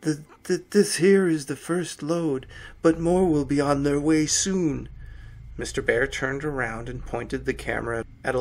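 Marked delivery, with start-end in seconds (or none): 0.0-4.9 muffled, as through a mask. A narrator's reading. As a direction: talk through a bear mask. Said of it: "muffled voice spoke up".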